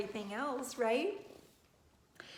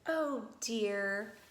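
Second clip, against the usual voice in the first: sadly. Acted. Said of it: "the old woman said sadly".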